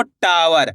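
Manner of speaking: टावर with a long stretched टा, falling away; drawn-out first syllable. Shown as a demonstration. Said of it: "टा का उच्चारण यहाँ पे खींच के हो रहा है".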